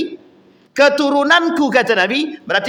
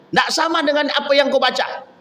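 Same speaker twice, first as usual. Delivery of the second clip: higher-pitched retold objection; mild acted complaint; 4 semitones higher than usual. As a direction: lightly act out a protest over a different reading. Acted complaint of Umar to Prophet. (memprotes, nada meninggi)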